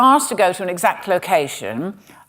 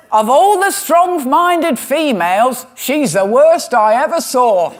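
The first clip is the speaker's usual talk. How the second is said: slow, higher hammed-up cockney music hall turn; a mock cockney music hall performer, milking each line; music hall comic; 4 semitones higher, 4 dB louder, slower than usual. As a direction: ham it up like an old music hall comedian delivering the gag. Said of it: "And I love this".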